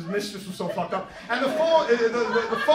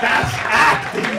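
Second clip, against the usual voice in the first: proud declaration; 4 semitones higher, 12 dB louder, slower than usual. Retold or imitated. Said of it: "punchline of the bit".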